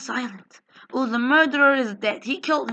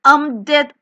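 louder, dramatic I'm dead; mock dying cry; 7 dB louder than usual. Player hit in game cries out in mock agony. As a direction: announce your death loudly. Reacting to being killed in game.

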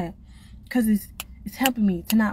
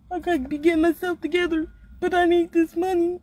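imitating a worn-out worker; 7 semitones higher than usual. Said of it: "behind the clock like".

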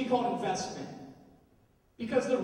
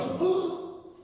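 gasp; 7 semitones higher than usual. Retold or imitated. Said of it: "He goes".

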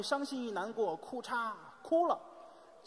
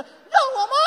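very high, loud screech; frantic mock rage; 15 dB louder than usual. Mother snapping back at father, shrill frantic rage. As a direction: shriek it back as a furious wife. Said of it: "你妈也急了".

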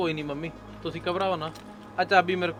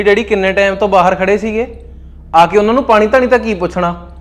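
louder, hard scolding; angry rebuke; 4 dB louder than usual. Acted. Husband scolds wife for ignoring his parents, louder angry voice. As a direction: tell her off for sulking.

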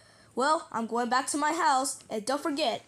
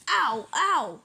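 mock pain; 4 dB louder than usual. Toy hurt after crash.

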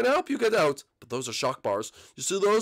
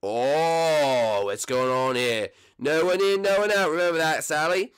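bossy voice; 3 dB louder, slower than usual. Acted. Boss character enters.

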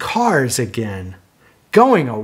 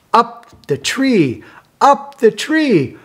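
higher excited call; 7 semitones higher than usual. Acted. Telling the child the dogs climb, excited. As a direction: build it up.

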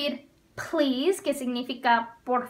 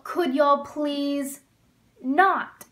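slow model phrase; much slower than usual. Shown as a demonstration. Teacher modeling a y'all command for students, slow. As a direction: stress the not after a pause. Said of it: "teacher modeling y'all command".

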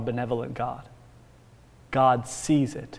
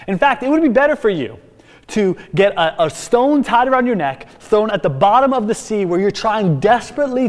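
louder, higher preaching warning; fiery paraphrase of Jesus; 5 semitones higher, 4 dB louder than usual. Retold or imitated. Preacher voicing Jesus's warning to would-be offenders, fiery. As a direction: press the threat home with rising force. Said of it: "So he's saying".

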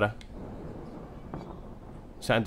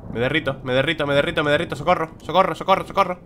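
melting witch voice; 6 semitones higher than usual. Pretend. Melting character in game.

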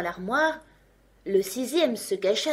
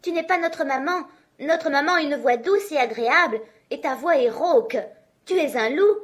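put-on high, louder kids' voices; defiant kids; 6 semitones higher, 5 dB louder than usual. A narrator's reading. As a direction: kids telling off the wolf. Kids refuse the wolf. (voix aiguë et plus forte des chevreaux, indignés)

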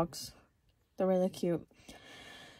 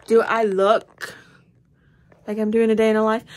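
1 indignant retort; 3 semitones higher, 11 dB louder than usual. Real, not acted. Vlogger scoffing at a coworker's vlog question, loud. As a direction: hit it hard and disbelieving.

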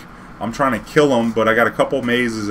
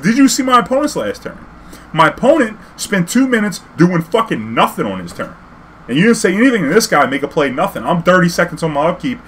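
much higher, louder outraged rant; heated rant; 6 semitones higher, 4 dB louder than usual. Retold or imitated. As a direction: blast the judge. Arguing with judge.

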